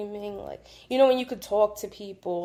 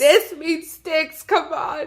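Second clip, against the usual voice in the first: mock impatient outburst; 6 semitones higher, 5 dB louder, much slower than usual. Friend re-enacts her impatient game outburst.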